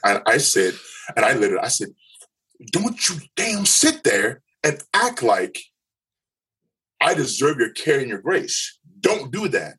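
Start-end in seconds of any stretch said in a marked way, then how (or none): 2.7-9.8 higher, slow and pointed, a retold outburst; angry outburst. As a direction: spit out a retold rebuke at the counselor. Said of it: "mirrored my volume".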